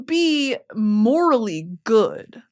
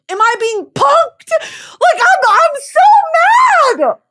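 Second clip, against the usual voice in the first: screaming furious, close to crying; furious rant; 12 semitones higher, 7 dB louder than usual. Real, not acted. Ranting at booktok recommenders, high furious shout. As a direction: yell it out at the readers who hyped the book.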